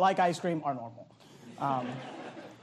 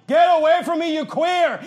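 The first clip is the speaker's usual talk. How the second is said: higher, louder mock yell; re-enacting yelling at a man in a parking lot, higher and louder; retold yelling; 7 semitones higher, 8 dB louder than usual. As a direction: bark it out at the stranger. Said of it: "like, yelling".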